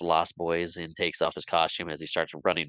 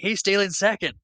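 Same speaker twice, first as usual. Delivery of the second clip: high, loud shout from the stands; calling out; 13 semitones higher, 5 dB louder than usual. Retold or imitated. Pirate in the stands shouting to the field, loud call. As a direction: yell it across the ballpark. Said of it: "another pirate from the stands calls out".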